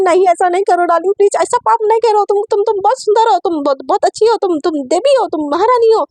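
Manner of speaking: high, fast, desperate sweet talk; frantic flattery. Acted. Satya flatters Aisha desperately, high and fast. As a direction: gush flattery fast to save your skin.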